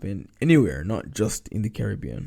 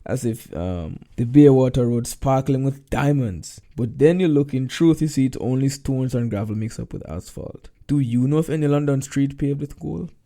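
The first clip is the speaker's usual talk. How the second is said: sarcastic; 3 dB louder than usual. Acted. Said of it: "Nice sarcasm there".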